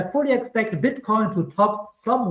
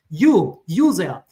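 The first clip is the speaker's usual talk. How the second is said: you there, listen up; calling out; 5 dB louder, slower than usual. Real, not acted. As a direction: direct call to the viewer. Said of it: "calling out the viewer".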